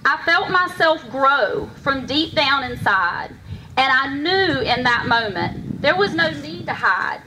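measured rhyming storytelling, pausing between lines; heartfelt poem, phrased line by line; poem recitation. Acted. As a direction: recite a personal poem to an audience. Recites own poem on stage.

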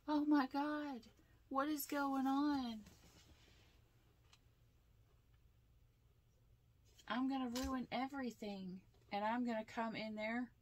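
hammed-up panicked girl; mock panic. Tarot reader mocking the panicking feminine, high dramatic whine.

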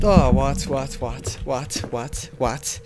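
slipping into a hint of Irish American; startled, repeated words in a slight Irish American accent. Real, not acted. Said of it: "turned into, like, some kind of Irish American".

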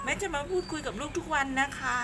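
high singsong pet-talk; cutesy small voice. Real, not acted. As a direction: promise it sweetly to a wary cat. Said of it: "แม่ทำเสียงเล็กเสียงน้อย".

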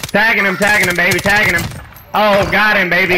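loud, high, hyped-up cheering; cheering on a fight. Real, not acted. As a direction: whoop it up as the shots land. Hitting enemy in firefight.

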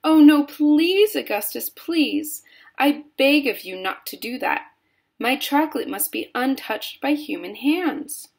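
high, pleading alarm; crying out. A narrator's reading. Mister Wonka begging Augustus not to touch his chocolate, crying out. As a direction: beg urgently, stretching the pleas. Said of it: "he cried out".

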